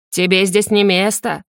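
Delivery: an alien voice speaking through the shaman; cold warning from beyond; spirit voice. A narrator's reading. Spirit through the shaman warns the girl, alien voice.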